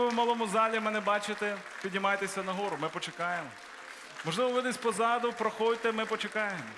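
loud, high appeal to the whole hall; urgent preacher's altar call; calling people forward. Acted. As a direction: call them forward from the balcony.

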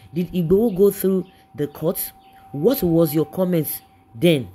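loud, slow, scolding questions; angry outburst. Real, not acted. Vlogger scolding critics of the detainee, loud and angry. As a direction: hammer each question at them.

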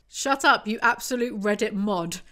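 fed-up telling-off of a know-it-all; exasperated heckle. Real, not acted. Reader scolding a pedantic character, exasperated heckle.

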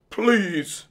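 high, drawn-out plea; wailing. A narrator's reading. Fox with toothache begging the dentist, wailed. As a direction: wail it like a sufferer begging. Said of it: "the fox wailed".

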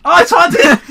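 surprised. Real, not acted. Startled by game event.

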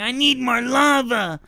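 slow mock Hispanic-accented begging; drawn-out Hispanic-accented kid plea. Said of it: "he kept saying".

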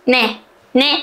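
usual speaking voice

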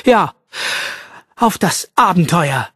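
slowly and seriously joining the toast; a solemn, earnest agreement. Acted. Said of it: "stimmte Fitzwilliam langsam und ernsthaft ein".

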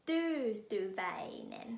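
Tyytyväinen whispered very slowly; whispered repeat. Shown as a demonstration. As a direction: breathe Tyytyväinen out again as a whisper. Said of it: "คำสุดท้ายหลายพยางค์".

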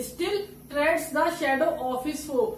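very slow, every word drawn out; slow example reading. Shown as a demonstration. Teacher reading a poem line slowly for students. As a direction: read the line out slowly so students catch each consonant. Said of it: "example जैसे उठा लिए".

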